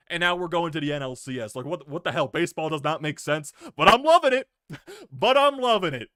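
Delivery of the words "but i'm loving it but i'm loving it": loud, high joyful outburst laughing; overjoyed. Real, not acted. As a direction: shout your delight through laughter. Fan overjoyed after series win.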